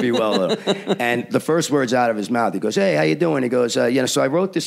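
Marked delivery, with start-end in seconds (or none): 2.8-3.4 higher-pitched imitation of a cocky pitcher; mock swagger. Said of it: "with his swagger and his crap". 4.1-4.7 mock swagger. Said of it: "with his swagger and his crap".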